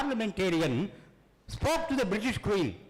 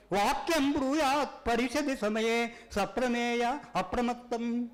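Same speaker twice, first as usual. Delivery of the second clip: verse recitation. Acted. Reciting a Sanskrit sloka.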